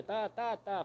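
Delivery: TÁ, TÁ, TÁ as separate even beats; beating out syllables. Shown as a demonstration. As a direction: tap out each "tá" like a hoofbeat. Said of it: "batendo as sílabas assim". ("tá, tá, tá" batendo cada sílaba)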